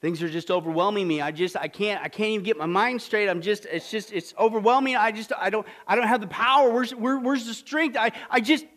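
halting, broken-up pleading voice; struggling to find the words; distressed confession. Acted. Congregant voiced pouring out troubles.

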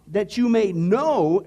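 "That you may know," read out slowly and clearly; slow corrected reading. Shown as a demonstration.

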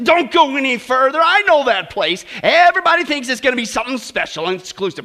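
loud, high, dismissive running down of the hotel; scornful hairdresser. Retold or imitated. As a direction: sneer at the place like it's a dump. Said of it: "hairdresser trashes the hotel".

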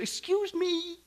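high, drawn-out interruption; incredulous retort. Acted. Preacher answers the excuse that trust is risky, incredulous. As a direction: cut in with rising disbelief.

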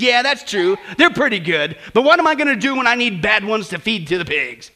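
sour, grudging reply; a lightly voiced sour old neighbour. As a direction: give it a sour, grumbling edge. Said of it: "in her usual sour manner".

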